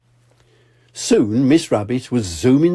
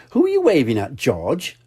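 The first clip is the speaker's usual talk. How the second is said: Mummy Pig; 4 semitones higher than usual. Acted.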